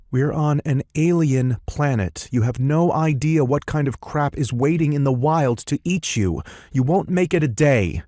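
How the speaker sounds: high-pitched sarcastic woman. A narrator's reading. Sarcastic woman warning the group about an alien planet, high-pitched scorn. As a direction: warn them off in a high, scornful voice. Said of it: "a sarcastic, raven-haired woman".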